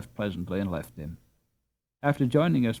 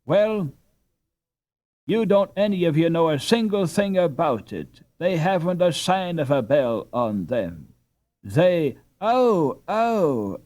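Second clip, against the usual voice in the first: firm, loud and a bit raised; decisive declaration, louder; 6 semitones higher, 5 dB louder than usual. A narrator's reading. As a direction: settle the argument once and for all. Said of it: "with a decisive".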